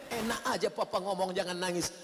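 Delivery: a wife scolding her husband, building to shouts; complaining wife. Acted. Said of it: "Lalu ibu komplain".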